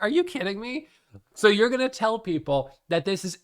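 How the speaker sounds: high, disbelieving mock outburst; incredulous. Retelling her reaction to the scammer's message, high incredulous. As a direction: act shocked at the absurd message. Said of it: "I was like".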